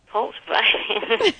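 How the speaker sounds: slow, disbelieving repeat; drawn-out baffled question; incredulous. Real, not acted. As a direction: echo it back in disbelief. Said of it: "what the hell are you doing".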